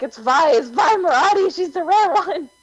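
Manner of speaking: high excited squeal of recognition; excited fangirl scream. Retold or imitated. Spotting the rare character, excited high squeal. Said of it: "like, I screamed".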